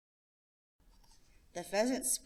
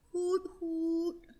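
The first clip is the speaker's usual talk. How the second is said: put-on a boy ending with a hoot; gentle hoot; 10 semitones higher than usual. Child soft bird call.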